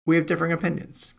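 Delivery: knowing, wry tone; hint at a disagreement playfully; teasing. Real, not acted. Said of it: "I'll just leave it at that".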